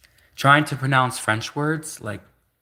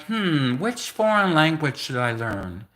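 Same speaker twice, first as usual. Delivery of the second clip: lightly acted musing, drawn out; mock pondering; 3 semitones higher, slower than usual. Younger self choosing a language to learn, mock pondering. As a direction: ponder it slowly with a playful "hmm".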